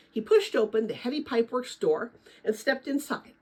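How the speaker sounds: steady read-aloud storytelling voice; reading a novel aloud to former students; story narration. Acted. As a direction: read the chapter to the kids like a teacher.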